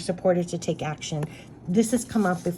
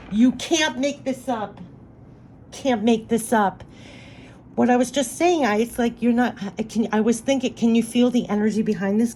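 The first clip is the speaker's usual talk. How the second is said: teary-eyed; 5 semitones higher than usual. Real, not acted. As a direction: let the emotion rise in the voice. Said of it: "I'm getting teary-eyed".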